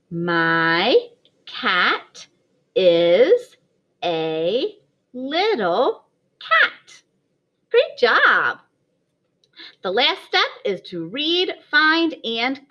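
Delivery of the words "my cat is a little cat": slow word-by-word reading with a little laugh at the end; slow choral reading. Shown as a demonstration. Teacher reading along with her class, slow. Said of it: "Read it with Missus Yarman if you can".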